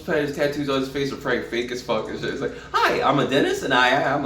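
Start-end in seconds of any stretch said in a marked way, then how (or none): 2.7-4.3 laughing mock introduction. Joking actor's real persona.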